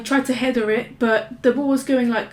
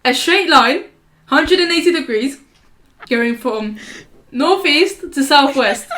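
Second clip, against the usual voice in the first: slow explaining; 3 semitones higher, 4 dB louder than usual. Shown as a demonstration. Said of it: "Imagine the ball dropping like that".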